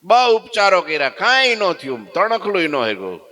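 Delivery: high, loud storytelling; excited narration. A narrator's reading. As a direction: build the drama. Narrator builds the failed curses. (ઉત્સાહભર્યું વર્ણન)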